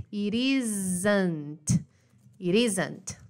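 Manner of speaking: "It isn't" with a tapped R sound for the T; relaxed American flap; flapped T. Shown as a demonstration. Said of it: "Tá vendo, ó?".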